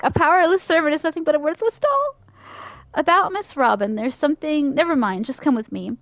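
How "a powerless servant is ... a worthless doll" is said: rushes the line through cleanly; hurried, higher retake; fast clean retake. Shown as a demonstration. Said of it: "oh, I can't talk".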